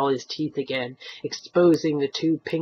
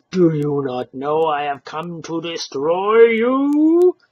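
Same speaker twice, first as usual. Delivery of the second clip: menacing threat; 5 dB louder than usual. Acted. Stranger's threat.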